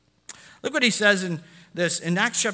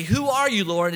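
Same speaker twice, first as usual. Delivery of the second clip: calling out; 4 semitones higher, 5 dB louder than usual. Acted. Saul cries out to voice.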